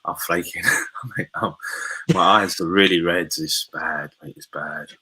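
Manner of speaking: groggy, worn-out hungover voice. Real, not acted. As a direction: talk like you barely slept and drank too much. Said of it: "I'm so hungover".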